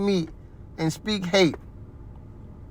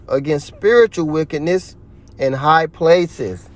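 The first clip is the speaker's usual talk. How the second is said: scripture reading. Acted. Preacher reading Ephesians to his viewers, measured and firm. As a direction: read the verse out like a preacher.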